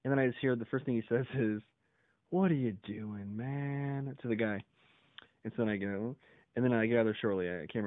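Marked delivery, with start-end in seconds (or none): 2.3-4.1 drawn-out, slow question; retold slow challenge. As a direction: imitate a guard's slow, incredulous question. Quoting security guard, slowed.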